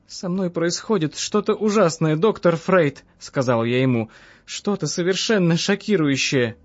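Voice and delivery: woman patient in mild distress. Acted. Distressed patient confides in Freud.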